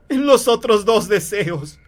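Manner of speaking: loud, high, slow emphasis; frantic insistence. Acted. Wife reminds husband of the wishes, frantic. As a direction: press it on him urgently.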